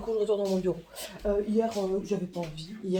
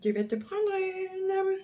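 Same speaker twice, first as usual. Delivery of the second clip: mock threat; 11 semitones higher, slower than usual. Warning child mock threat.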